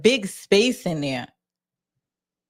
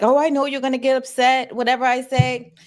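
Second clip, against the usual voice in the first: mock goading, pitched higher; provoking; 6 semitones higher than usual. Host voices the woman trying to provoke him, provoking. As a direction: imitate someone needling to provoke. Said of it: "already about to try to provoke him".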